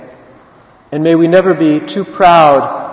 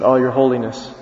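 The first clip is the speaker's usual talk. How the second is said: low, soft retold reverence; humbled awe; 4 semitones lower, 5 dB quieter than usual. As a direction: answer softly, overwhelmed by the honour. Awed beggar answers Pope.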